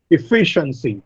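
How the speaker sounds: "Efficiency" said e-FI-ciency; stress on second syllable. Shown as a demonstration. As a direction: lean on FI in "Efficiency". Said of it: "The second syllable receives the stress".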